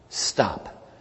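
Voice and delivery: urgent whisper; whispered warning. Retold or imitated. Psychic warns him to stop.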